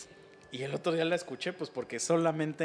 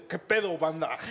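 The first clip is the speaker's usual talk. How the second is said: Goku English dub impression; 4 dB louder than usual. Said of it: "Goku habla así de".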